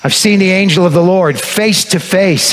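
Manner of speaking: half-hearted mock lament; mild wail. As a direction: Gideon terrified after seeing the angel, lightly wailing. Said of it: "he wailed".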